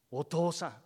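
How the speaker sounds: high, loud retold yell at father; son's tearful yell at his father; shouting through tears. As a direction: cry out at dad, high and loud. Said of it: "大きい声で怒鳴りながら".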